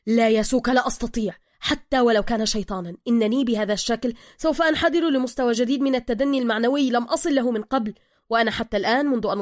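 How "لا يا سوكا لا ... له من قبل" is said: agitated. Acted. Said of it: "بروس بعصبية".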